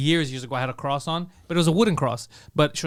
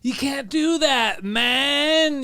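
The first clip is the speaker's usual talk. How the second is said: mock scolding; 6 semitones higher, much slower than usual. Woke couple scolding.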